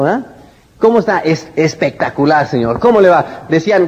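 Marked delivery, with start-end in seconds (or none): 0.8-3.5 bright, upbeat hello with energy; enthusiastic greeting. Shown as a demonstration. Salesman showing an eager, lively client greeting. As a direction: greet him like it's the best day ever. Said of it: "la persona que está entusiasmada".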